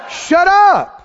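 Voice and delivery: high, forceful shouted command; out loud. Shown as a demonstration. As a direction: shout down the enemy's thoughts. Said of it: "just speak right out loud and go".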